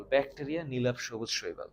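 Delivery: usual speaking voice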